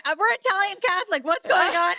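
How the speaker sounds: disapproving dad. Retold or imitated. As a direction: scold in mock disbelief. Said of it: "He's like".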